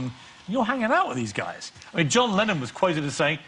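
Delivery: ordinary delivery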